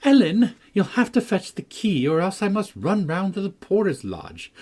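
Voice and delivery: high, loud excited call; a girl calling from beyond the wall; laughing exclamation. A narrator's reading. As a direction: call out gleefully over the wall. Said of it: "laughing and exclaiming".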